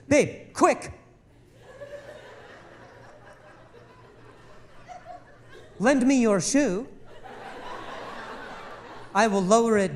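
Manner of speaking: lightly voiced wife bursting with a rescue plan; mock excited wife. Wife urging husband to lend his shoe, mock excited. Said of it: "she goes".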